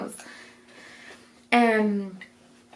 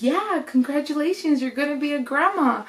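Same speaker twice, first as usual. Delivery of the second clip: retold congratulations; 6 semitones higher than usual. Retelling assistant congratulating her mother.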